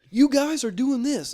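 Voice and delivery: high, loud, slow scolding; mock scolding boss. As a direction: scold the whole group. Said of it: "They're like, they're like".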